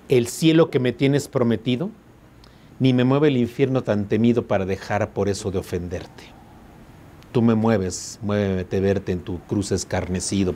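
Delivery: reading the sonnet aloud, unhurried; poem recital. Shown as a demonstration. Teacher reading the sonnet to students, calm recital. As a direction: give each verse its weight.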